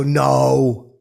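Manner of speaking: a loud, flat "No." that cuts the laughter; shouted no. Retold or imitated. Scolding Elon's joke.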